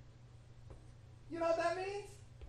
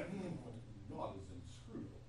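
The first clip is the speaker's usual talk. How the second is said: soft, smiling and knowing; quiet, playful smile on the words; with a big smile; 11 dB quieter than usual. Shown as a demonstration. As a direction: say it with a big grin. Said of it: "with a big smile".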